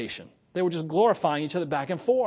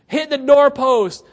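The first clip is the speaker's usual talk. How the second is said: laughing through the words, higher and louder; 9 semitones higher, 11 dB louder, slower than usual. Real, not acted. Preacher laughing at hitting the doorpost, laughing. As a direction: crack up at your own crash. Laughs while repeating crash line.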